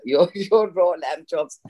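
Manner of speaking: slow, stammering, half laughing; nervous giggle. Retold or imitated. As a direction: giggle nervously while stumbling over the words. Shaking hands serving Hopkins again.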